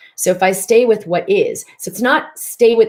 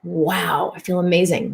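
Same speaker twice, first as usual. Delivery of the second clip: relieved inner voice. Retold or imitated. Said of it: "And now what's here is".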